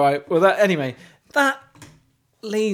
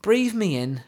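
mock poetry recital; 2 semitones higher than usual. Host reading a singer's lyrics at open mic, mock solemn. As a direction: read it like a grave poem. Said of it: "like a poetry recital".

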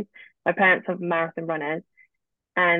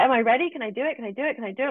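higher, pleading "can I do it"; eager anxious questions; 5 semitones higher, much faster than usual. Retold or imitated. Student pleading with her tarot teacher, eager. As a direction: repeat the question, itching to start.

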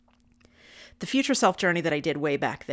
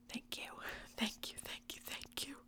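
barely audible repeated whisper; whispered thanks; 8 semitones higher, 18 dB quieter than usual. Real, not acted. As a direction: breathe the thanks out softly.

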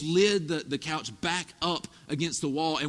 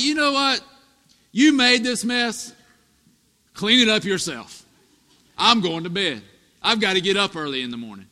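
put-on louder, cold brush-off to the child; mock harsh dad; 7 dB louder than usual. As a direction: play the selfish father dismissing his son. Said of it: "If I was just like".

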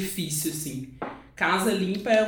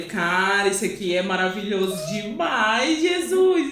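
excited. Retold or imitated. Retold delight at a knife set.

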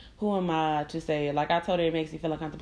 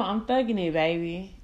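mock tough cool. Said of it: "trying to keep it cool".

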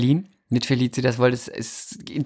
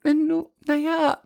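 much higher, squeaky breathless gushing; giddy fangirl; 14 semitones higher than usual. Pretend. Starstruck actress agrees to rehearse, squeaky gushing. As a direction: gush like a starstruck teen. Keeps playing flustered fan.

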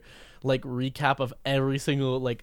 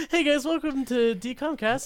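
high, bright host greeting; podcast host voice; 11 semitones higher than usual. Pretend. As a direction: open the show like a host. Fake podcast intro greeting.

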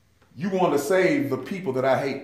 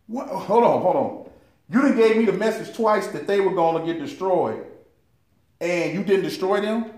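indignant Jonah; 4 semitones higher than usual. Acted. Preacher voices angry Jonah.

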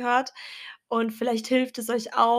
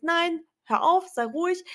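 firm inner command; 7 semitones higher than usual. Retold or imitated. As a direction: tell the doubt to shut up. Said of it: "dann habe ich immer gesagt".

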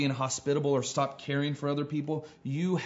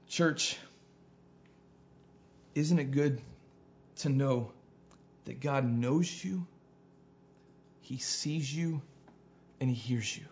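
hushed pastoral appeal, phrase by phrase; tender preaching; 5 dB quieter than usual. Real, not acted. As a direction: let each comforting phrase sink in quietly.

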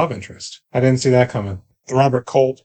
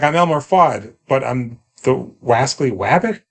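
Elmer Fudd voice. Retold or imitated. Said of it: "his Bugs Bunny".

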